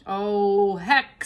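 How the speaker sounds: big kitchen woman grumbling about the fox; Mabel voice. Acted. Mabel disappointed.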